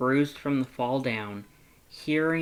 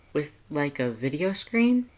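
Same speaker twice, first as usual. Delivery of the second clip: higher, lighter heroine voice; curious young woman; 3 semitones higher, 3 dB louder than usual. Acted. Heroine asking Sans about Papyrus's call, higher and curious. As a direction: ask Sans gently, curious.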